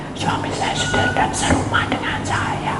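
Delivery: high, soft whispered complaint; sick wife telling the pastor, faint whisper. Retold or imitated. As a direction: breathe the words out weakly. Sick woman's faint words.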